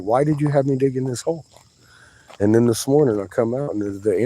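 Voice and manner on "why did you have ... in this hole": questioning the Creator. Retold or imitated. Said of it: "I'm asking questions like".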